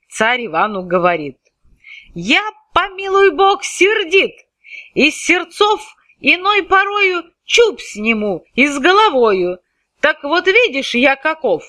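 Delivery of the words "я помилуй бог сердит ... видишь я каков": высокий грозный крик царя; грози, распаляясь; threatening tsar. Acted. Царь грозит Ивану. (царь грозит Ивану: высокий сердитый голос)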